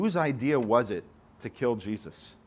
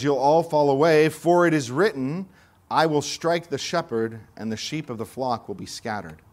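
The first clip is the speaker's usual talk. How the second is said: forceful quote; 5 dB louder than usual. Acted. Preacher quoting Jesus with force.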